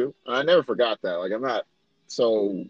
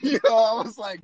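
laughing; 8 semitones higher, slower than usual. Real, not acted. Laughing recalling the comment.

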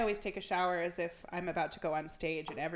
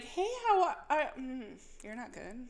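giggly high chatty voice; laughing through the question; laughing small talk; 4 semitones higher, slower than usual. Retold or imitated. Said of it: "'cause I'd be like".

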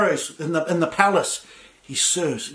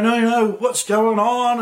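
mock grumpy; 5 semitones higher, slower than usual. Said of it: "I've had some grumpy days".

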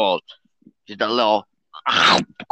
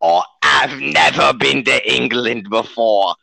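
mock Australian accent; 5 semitones lower than usual. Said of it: "he's Australian, if you can't tell".

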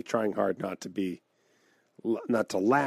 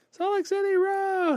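high, hyped-up bro voice; hyped Salt Lake bro; 4 dB quieter than usual. Retold or imitated. Retelling a fan bragging about Salt Lake City, hyped bro. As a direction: shout it like a hometown fan. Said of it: "crowd reply retold".

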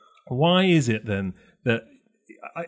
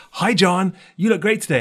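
higher, louder beaming hello; imitating cheery daughter; 7 semitones higher, 4 dB louder than usual. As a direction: gush at the doorman like the bubbly girl. Daughter greets doorman.

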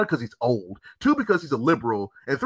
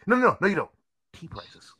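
retold insistence ending in a whisper on Tea prices; half-whispered mock insistence; retold insisting; 2 semitones higher than usual. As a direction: drop to a breathy whisper on the last words. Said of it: "He was like".

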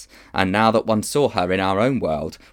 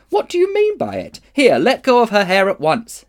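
indignant shout; 12 semitones higher, 7 dB louder than usual. Acted. Diggory confronting the witch.

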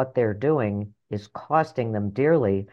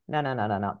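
normal talking voice

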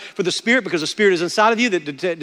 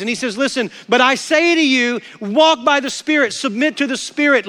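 full-force preaching; 6 semitones higher than usual. Acted. Pastor urging believers to claim victory, preaching at full force. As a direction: preach it hard to the congregation.

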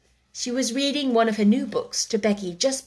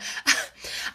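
soft laugh; 4 dB quieter than usual. Acted. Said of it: "laughed Sarah".

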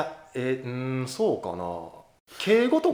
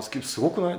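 sudden Tokyo-style すごくない with rising end; standard Japanese; 6 semitones higher, 3 dB quieter than usual. Real, not acted. To a friend, suddenly sounding standard: すごくない？ rising. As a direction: Kansai speaker slipping into standard すごくない？. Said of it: "え、なんで急に標準語？".

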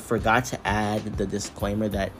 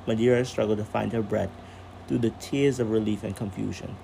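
calm storyteller reading aloud; story narration. A narrator's reading. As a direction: read it like a bedtime story.

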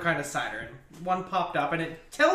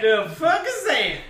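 louder mock Texas accent; 2 semitones higher, 4 dB louder than usual. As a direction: echo it like a puzzled Texan. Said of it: "say it in the Texas accent".

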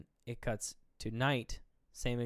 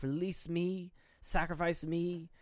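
begging; 3 semitones higher, 4 dB quieter, slower than usual. Retold or imitated. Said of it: "she's, like, begging him".

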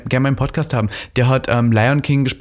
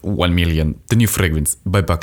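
sultry perfume ad; 5 semitones lower than usual. Pretend. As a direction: purr it like a luxury fragrance ad. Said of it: "Aber ich liebe das so".

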